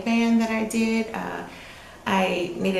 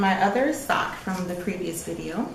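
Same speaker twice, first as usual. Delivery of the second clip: light mock British accent on the sock news; a playful attempt at sounding British. Friend showing off her sock in a put-on British accent. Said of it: "I don't know why I did that accent".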